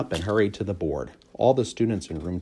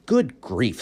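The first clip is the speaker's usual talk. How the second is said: very unhappy voice; 5 semitones higher, 3 dB louder than usual. A narrator's reading. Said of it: "in a very unhappy voice".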